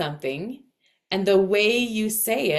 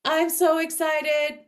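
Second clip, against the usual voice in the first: mock monotone held on one raised note; flatline Virgo sound; 10 semitones higher than usual. Coach imitating someone's Virgo sound, straight-on flatline delivery. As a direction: announce excitement with hardly any inflection. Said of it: "speak in a Virgo sound".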